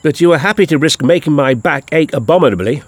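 mildly indignant protest. Acted. Victoria accuses the doctor over her aching back, mildly indignant. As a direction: protest with a touch of outrage. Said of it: "with such indignation".

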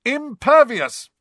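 high, slow incantation; spell shout. A narrator's reading. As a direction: call out the charm grandly. Team casting spell together.

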